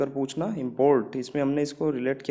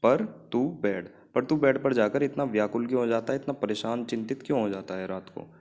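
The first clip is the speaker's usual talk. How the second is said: slow, spaced-out recital of the sentence; slow memory line; 2 semitones lower than usual. Shown as a demonstration. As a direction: say it slowly so it sticks. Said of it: "आपको याद हो जाएगा आराम से". (धीरे-धीरे याद कराने वाला लहजा)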